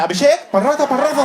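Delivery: high loud call of a dad from the next room; dad hollering for his son. Retold or imitated. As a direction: shout his son's name up high. Dad calling out son's name.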